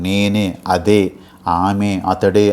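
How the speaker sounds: each of నేనే, అదే, ఆమె, అతడే stretched; emphatic, separated నేనే, అదే, ఆమె, అతడే; emphatic stress. Shown as a demonstration. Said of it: "emphasize చేసి చెప్తాను".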